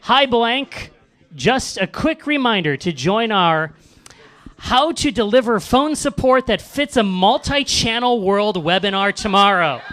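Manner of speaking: slow, measured robotic email read; computer voice. Acted. Host reads a webinar email to the crowd, mock computer voice. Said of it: "in a computer voice".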